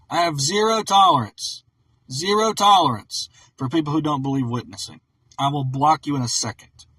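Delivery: angry rant. Real, not acted. Ranting about nonbelievers.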